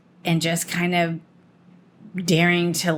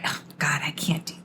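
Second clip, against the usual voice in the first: whispered, softer, as a scared friend backing out; timid whisper; 3 semitones lower, 6 dB quieter, faster than usual. Retold or imitated. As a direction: breathe it out like you dread even trying. Friend shrinking from a challenge.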